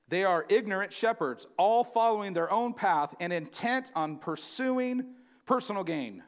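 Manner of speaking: measured pulpit reading; scripture reading. Acted. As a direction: read it like a pronouncement from the pulpit. Reads scripture in preaching voice.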